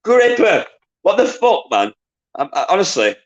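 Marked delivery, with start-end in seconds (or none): 0.0-1.9 exasperated disbelief. Real, not acted. Quiz host exasperated at Gripper's answer, high incredulous cry. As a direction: throw up your hands in outrage.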